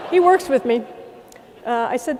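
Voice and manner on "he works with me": amused emphasis. Real, not acted. Punchline repeated, amused.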